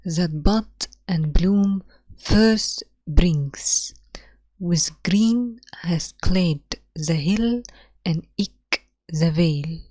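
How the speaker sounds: slow, hushed poetry recital; reading the poem aloud. Shown as a demonstration. Teacher reads the sonnet's opening lines to students, slow and hushed. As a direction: read the lines slowly for the class. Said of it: "طب تعالوا نشوف the first two lines".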